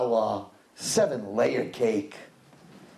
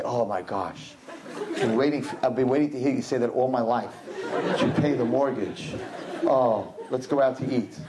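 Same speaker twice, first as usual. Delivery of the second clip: sarcastic gush; 4 semitones lower than usual. Retold or imitated. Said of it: "She should say".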